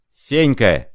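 yelled name, pitch up; howl. Acted. Zimoveykin yelling at Senka over the noise. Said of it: "завопил".

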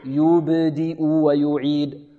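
"يبدئ ويعيد" very slow and soft, pure oo on each ya; careful model recitation. Shown as a demonstration. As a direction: stretch "يبدئ ويعيد" with full rounded damma. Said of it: "هذا من حيث النطق". (تلاوة "يبدئ ويعيد" ببطء وبضم تام)

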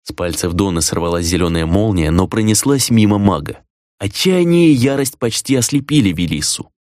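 plain reading voice

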